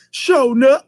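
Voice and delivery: high, loud cheer; mock chorus of flunkies. Flunkies backing their boss, high mock cheer. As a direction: chant it like loyal henchmen. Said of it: "flunkies was like".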